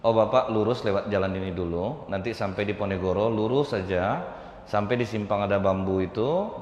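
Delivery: calm, even, helpful tone; a courteous woman guiding a stranger; polite directions. Shown as a demonstration. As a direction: give directions kindly and plainly. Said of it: "nadanya harus beda".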